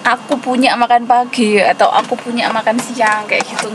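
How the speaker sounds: ordinary talk, nothing marked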